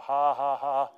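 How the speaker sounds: put-on, evenly spaced laugh; demonstrated hearty laugh; belly laugh. Shown as a demonstration. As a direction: act out a deliberate ha-ha-ha. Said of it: "good old belly laughs".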